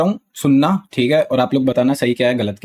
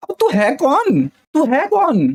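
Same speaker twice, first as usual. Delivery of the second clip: much higher, incredulous repeated question; who are you even, pitched way up; indignant disbelief; 11 semitones higher, slower than usual. Real, not acted. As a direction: fire back in outraged disbelief. Indignant retort about the guy.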